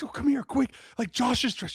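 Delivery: thrilled fan at the TV; excited. Retold or imitated. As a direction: call out to the wife in delight. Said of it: "I'm like".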